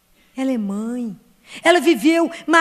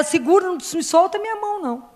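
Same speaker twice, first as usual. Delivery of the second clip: higher, earnest plea to Mary; pleading prayer; 6 semitones higher than usual. Acted. Preacher voicing the faithful praying to Mary, pleading. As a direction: beg her to hold your hand, voice lifted. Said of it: "pedir a ela".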